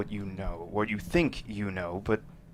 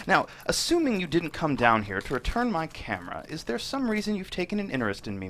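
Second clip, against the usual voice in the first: a hint of a smug, higher-pitched man; lightly voiced Burke, smug; 5 semitones higher, 5 dB louder than usual. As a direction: play the suave villain, mildly mocking.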